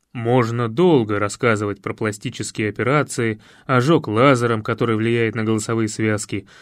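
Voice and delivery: low, rasping, confiding man; hoarse coach voice. A narrator's reading. Coach explains his new face to Nastya, low and hoarse. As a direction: rumble it low and knowing. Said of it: "хриплый голос".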